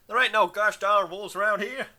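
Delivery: a deliberately poor Southern accent, self-mocking. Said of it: "Can you tell I can't do a southern accent".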